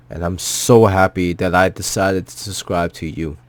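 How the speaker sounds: holding back real tears; choked up. Real, not acted. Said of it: "I'm sorry if I'm getting choked up".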